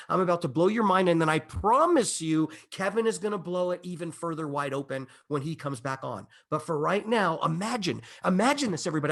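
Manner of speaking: excited hype to the crowd; getting carried away with anticipation; real excitement. Real, not acted. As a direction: pitch it with mounting enthusiasm. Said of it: "I'm getting excited".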